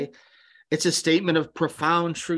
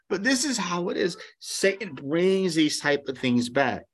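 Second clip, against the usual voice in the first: ordinary talk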